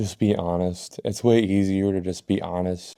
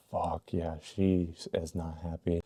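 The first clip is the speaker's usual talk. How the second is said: muttered dread; 2 semitones lower, 11 dB quieter than usual. Retold or imitated. Dreading the angry mom.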